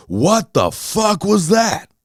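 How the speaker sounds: high, drawn-out outraged disbelief; retold shock. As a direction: imitate stunned neighbors calling out. Neighbors walk out, stunned.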